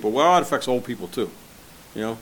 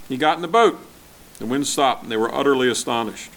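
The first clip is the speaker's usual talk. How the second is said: louder, raised scripture reading; 3 dB louder than usual. Acted. Preacher reading the storm passage to his church, raised reading voice. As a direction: read the Gospel out to the congregation.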